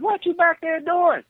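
high calling voice from another room; granddad calling. Retold or imitated. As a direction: call the name up high, a room away.

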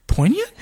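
"Poignant?" said POIN-yant with a rising high question; imitating Miriam's correction. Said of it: "Mary's like".

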